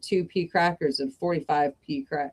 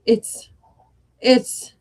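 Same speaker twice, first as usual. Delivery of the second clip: gibbering; 6 semitones higher, 5 dB louder than usual. Acted. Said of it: "he gibbered".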